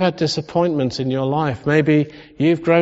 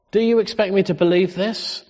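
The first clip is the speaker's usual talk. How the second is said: higher, indignant disbelief stressed on you; incredulous retort; 4 semitones higher than usual. Shown as a demonstration. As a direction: rise on "you" in disbelief as if offended. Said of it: "That's the tone".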